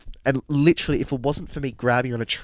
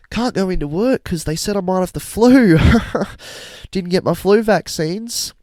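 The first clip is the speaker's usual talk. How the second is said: imitating Carl; 7 semitones higher, 4 dB louder than usual. Voicing Carl the stranger.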